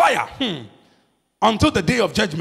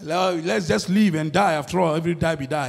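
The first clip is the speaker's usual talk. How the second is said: lightly voiced doubter; 3 semitones lower, 3 dB quieter than usual. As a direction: mutter it like someone who has given up waiting. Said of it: "They counted that".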